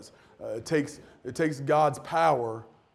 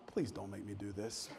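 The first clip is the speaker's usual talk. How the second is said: much softer, a low defeated plea; pleading under breath; 8 semitones lower, 16 dB quieter than usual. Retold or imitated. Pastor dreading the lobby line, soft pleading groan. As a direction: mutter it like you're begging to escape. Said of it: "And I'm like".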